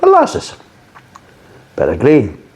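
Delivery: sudden squeaky high-pitched "Molasses"; mock-squeaky announcing of a flavour. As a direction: squeak the flavour name like a cartoon.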